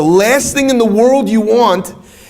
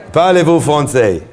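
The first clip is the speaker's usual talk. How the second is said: put-on French accent; 3 semitones lower than usual. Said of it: "He says".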